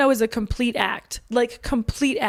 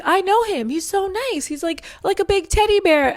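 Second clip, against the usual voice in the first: 1 imitating a gushing friend; 8 semitones higher than usual. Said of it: "She's like".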